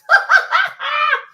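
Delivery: high, loud burst of laughter. Real, not acted. Cracking up at her own dark joke, loud laugh. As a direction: cackle out loud.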